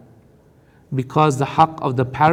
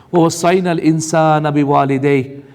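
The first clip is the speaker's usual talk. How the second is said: fast, chanted Arabic recitation; تلاوة القرآن; Quran recitation; 4 dB louder, much faster than usual. Acted. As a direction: recite the verse in tajweed. Recites verse again.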